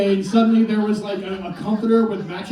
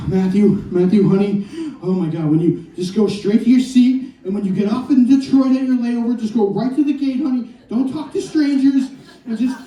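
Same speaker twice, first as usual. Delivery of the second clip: fussy mother; 3 semitones higher than usual. Retold or imitated. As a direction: fret over him like a panicky mom. Nervous mother at airport gate.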